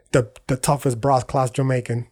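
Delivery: badly faked Jamaican accent; terrible Jamaican accent. Shown as a demonstration. Reviewer imitating the movie's Jamaican dealer, bad Jamaican accent. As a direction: put on a rough, amateur Jamaican accent. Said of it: "That's my terrible Jamaican accent".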